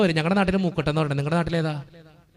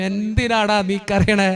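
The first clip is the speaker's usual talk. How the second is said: God's gentle voice; slower than usual. Retold or imitated. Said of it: "തമ്പുരാൻ പറയും". (പതിയെ, മൃദുവായി ആശ്വസിപ്പിക്കുന്ന ദൈവസ്വരം)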